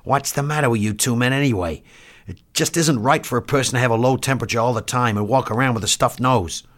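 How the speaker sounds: polite, exasperated complaint. Acted. Doctor grumbling at his two enlisted men, exasperated. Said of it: "expostulated politely in an uncommon excess of exasperation".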